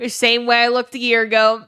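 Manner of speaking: words broken up by loud real laughter; laughing while talking. Real, not acted. Streamer answering a chat joke, laughing through the words.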